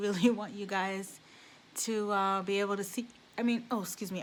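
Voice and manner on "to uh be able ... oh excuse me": talking through hiccups; hiccuping. Real, not acted. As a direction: hiccups breaking the words. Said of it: "I keep, I keep hiccuping".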